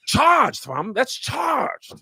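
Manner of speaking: high, drawn-out British slang; practised British street accent, pitched well up. Shown as a demonstration. Showing friends his other phrases, British accent. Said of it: "let me do my other ones".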